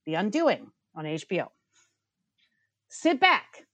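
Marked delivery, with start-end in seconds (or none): 2.9-3.7 dramatic invitation. Acted. Settling in for her rant.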